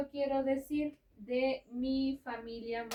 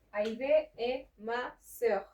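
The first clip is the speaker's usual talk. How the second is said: very slow, clearly spaced French model sentence; 5 dB louder, much slower than usual. Shown as a demonstration. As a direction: spell it out slowly for the learner. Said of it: "teacher models the French sentence".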